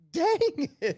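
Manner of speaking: high mock dismay; a playful high groan of defeat; lightly mocking his own letdown. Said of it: "And I'm like".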